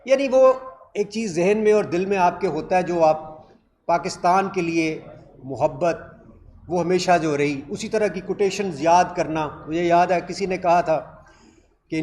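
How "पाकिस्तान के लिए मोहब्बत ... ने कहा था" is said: ordinary delivery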